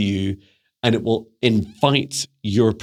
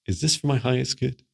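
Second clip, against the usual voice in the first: gentle inner question; 3 semitones higher, 4 dB quieter than usual. Shown as a demonstration. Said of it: "place your hand on your heart".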